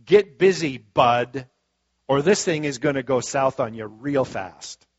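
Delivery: loud nagging warning; fear screaming. Acted. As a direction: bark it out like fear in your ear. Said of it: "Fear is a pretty loud voice screaming".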